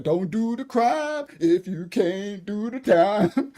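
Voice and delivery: drawn-out, slow saying, rising at the end; slow proverb. Acted. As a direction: spell the old saying out slowly like a lesson to Beretta. A proverb preached at Beretta.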